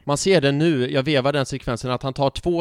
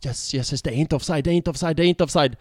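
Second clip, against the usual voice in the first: repeated chant, rising in pitch; re-enacted realisation, gathering force; retold growing relief. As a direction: build from hushed hope to excitement. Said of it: "när de vevade repriser, så jag bara".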